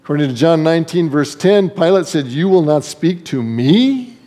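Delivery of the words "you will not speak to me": "me" drawn out in an incredulous question; slow question leaning hard on "me"; stress on ME. Acted. Incensed Pilate questioning silent Jesus, stress on "me". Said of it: "get the emphasis on the right word".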